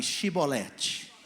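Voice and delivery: chibolete said very slowly with a sh sound; chibolete, slow, sh at the start; slow pronunciation demo. Shown as a demonstration. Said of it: "Fala pra pessoa do lado aí".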